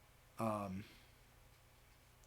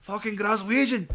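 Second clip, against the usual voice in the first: happy exclaim; 5 semitones higher, 4 dB louder, slower than usual. Retold or imitated. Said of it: "He was so happy".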